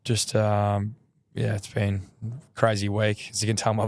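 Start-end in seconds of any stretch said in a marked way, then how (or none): 1.3-3.3 lost voice, hoarse and strained. Real, not acted. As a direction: speak through a worn-out hoarse voice. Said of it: "I've lost my voice".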